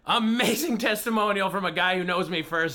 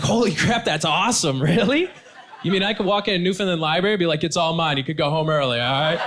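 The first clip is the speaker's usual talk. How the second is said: excited disbelief. Retold or imitated. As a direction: gush over the news. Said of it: "I was like".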